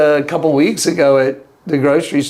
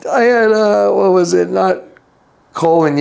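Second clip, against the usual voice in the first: ordinary delivery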